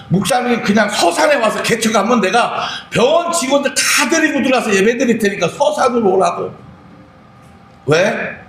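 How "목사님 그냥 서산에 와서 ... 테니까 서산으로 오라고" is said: pleading higher cry. Retold or imitated. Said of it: "막 울어요".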